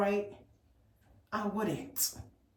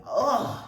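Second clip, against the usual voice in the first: mock yell grunt; 3 semitones higher, 6 dB louder than usual. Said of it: "like, yelling".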